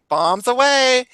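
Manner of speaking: hammed-up cry before jumping; mock bombs away. Tomboy jumping into river, mock gleeful cry. Retold jump from tree.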